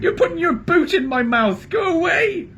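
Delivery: very high, loud bellow. A narrator's reading. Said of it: "bellowed Trumpkin".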